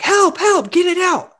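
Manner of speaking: high, mock-frantic plea; panicked. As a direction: imitate a squeal for help. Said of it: "And she's like".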